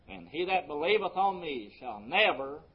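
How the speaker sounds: "never" lifted, then held before a pause; emphatic "never" closing the phrase; stress on NEVER. Shown as a demonstration. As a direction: lean on "never" and let it hang. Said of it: "I want to emphasize that word never".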